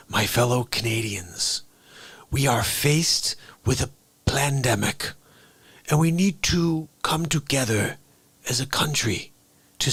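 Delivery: a speech that slides into Neeson's threat; Trudeau as Liam Neeson. Retold or imitated. Trudeau addressing Canadians, lightly Neeson-voiced. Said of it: "sounds like Liam Neeson".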